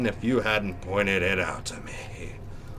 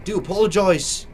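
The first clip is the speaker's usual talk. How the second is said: put-on "apologize" said as "a-POL-o-joyz" in an odd accent, a bit louder; a stray put-on accent on "apologize"; sudden odd accent; 4 semitones higher, 3 dB louder than usual. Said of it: "Don't know where this accent came from".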